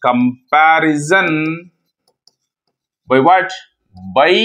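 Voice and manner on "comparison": drawn out syllable by syllable, rising at the end; slow dictation. Real, not acted. Teacher writing out the definition of ratio, slow dictation. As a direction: dictate it slowly for note-taking.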